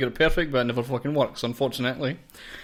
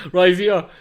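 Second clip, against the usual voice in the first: imitating Yorkshire accent; 5 semitones higher, 9 dB louder than usual. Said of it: "You kept saying Rivita ... in a kind of heavy ... Yorkshire accent".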